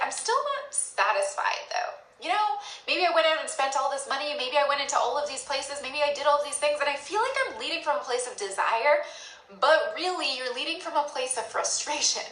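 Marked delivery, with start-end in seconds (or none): 0.0-9.1 mock self-justifying. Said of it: "you're like".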